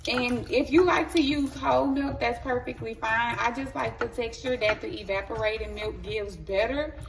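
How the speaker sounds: polished cooking show host voice; chef voice. Real, not acted. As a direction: talk like a TV chef presenting. Talk regular.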